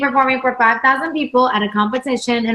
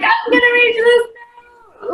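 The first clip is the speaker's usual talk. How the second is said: belting attempt; 11 semitones higher, slower than usual. Teen singer in her basement, belting for a high note. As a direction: go for the big note full out. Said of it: "I'm like".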